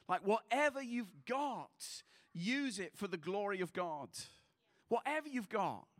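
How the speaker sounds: loud, rising exhortation; urging the church to share what they own; preaching loudly. Real, not acted. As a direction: press the point hard to the crowd. Preacher exhorts at full force.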